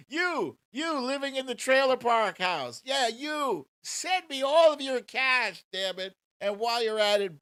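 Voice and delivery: high, loud hammed-up Trump voice; loud mock Trump pitch. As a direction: ham up a greedy Trump begging for cash. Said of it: "including said".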